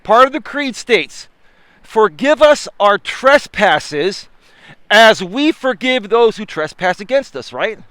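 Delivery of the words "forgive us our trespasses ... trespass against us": slow solemn preacher cadence; preaching. Acted. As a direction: stretch it out like a sermon. Repeats prayer line preaching.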